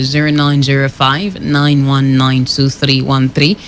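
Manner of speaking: nine one nine two three one three read slowly; slow dictation. Real, not acted. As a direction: dictate each digit clearly. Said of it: "That is zero nine zero five".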